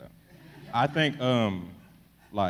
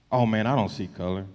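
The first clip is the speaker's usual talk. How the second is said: mock country folks saying it; playful Texas country accent; 3 semitones higher, 5 dB louder than usual. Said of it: "this is my country accent".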